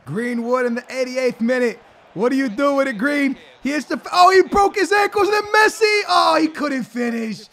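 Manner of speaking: high, loud commentator shouting over the goal; hyped play-by-play. Acted. Streamer commentates his own goal, high excited shouting. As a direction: call the goal like a stadium announcer.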